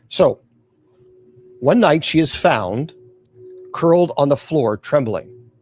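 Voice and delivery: measured, suspenseful storytelling; scary story narration. A narrator's reading. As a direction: narrate a dark tale, pausing between phrases. Reads a scary tale.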